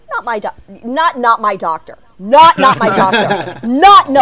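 building from plain to a loud, laughing no; a fussy fan's refusal swelling into a laughing shout; mock fan refusal. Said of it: "everyone has their doctor that's like".

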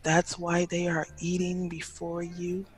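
lightly voiced smooth waiter; deep-voiced singer wannabe. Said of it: "singer wannabe waiter".

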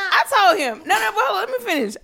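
giggling through the words; laughing, let me finish. Real, not acted. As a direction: laugh while trying to go on. Laughing while telling.

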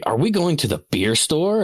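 put-on high, loud, eager child's question; loud kid question. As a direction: blurt it out like an excited kid. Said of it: "asks very loudly".

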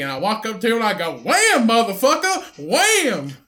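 lightly voiced rowdy hitchhiker; a hint of a backwoods hero telling his tale; hillbilly hero voice. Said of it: "playing out that scene".

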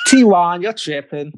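playful put-on American accent. Shown as a demonstration. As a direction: tease him in an American accent. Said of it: "in your best American accent".

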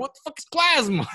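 baffled. Retold or imitated. His own baffled reply.

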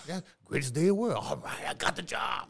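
hammed-up thrill of a new hire; acting out joyful news, loud and lifted; excited. Acting out someone just hired, excited.

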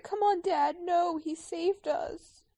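high pleading youngster voice; playful high-pitched character dub; voicing film animal. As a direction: plead like a pup to its dad, slowing down. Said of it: "Doing that narrate thing again".

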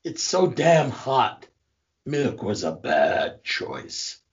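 slow, hammed-up Shakespearean delivery; mock-Shakespearean newsman, drawn out; Ron Burgundy. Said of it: "are you trying to do Shakespearean Ron Burgundy".

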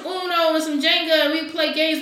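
loud laughing hype; excited shout. Retold or imitated. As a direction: yell it out hyped, laughing. Retold excited invite, shouted.

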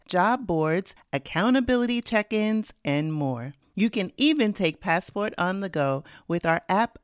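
upbeat sponsor read. Acted. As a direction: sell it like a podcast ad. Host reads sponsor ad.

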